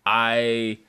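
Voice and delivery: lisping after oral surgery. Real, not acted. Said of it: "why you have a lisp today".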